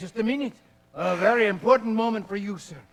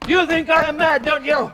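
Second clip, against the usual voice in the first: wild challenge; 6 semitones higher, 4 dB louder than usual. Acted. Mad traveller challenging.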